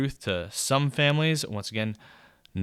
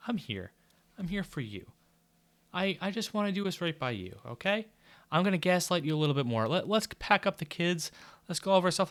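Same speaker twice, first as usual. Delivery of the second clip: higher, overly sweet fake reassurance; mock husband; 6 semitones higher than usual. Husband mockingly agreeing to leave, fake soothing. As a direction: play the gaslighting husband, syrupy and insincere. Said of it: "And he's like".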